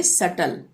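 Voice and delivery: सटल with no b before the t; silent B. Shown as a demonstration. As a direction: leave the b out of सटल. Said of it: "को pronounce नहीं करेंगे".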